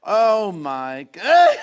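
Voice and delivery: drawn-out loud cry into a high squeal; slow, loud wail exploding into laughter; helpless laughter. Real, not acted. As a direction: lose it completely. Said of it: "I haven't laughed like that for ages".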